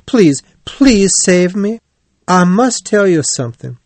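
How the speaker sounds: high, desperate begging; urgent plea in a high pitch; frightened pleading. A narrator's reading. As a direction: beg to be saved. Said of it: "Toad was very afraid".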